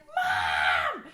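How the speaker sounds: loud call, pitched low; yelling for mom. Retold or imitated. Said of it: "And I just start yelling".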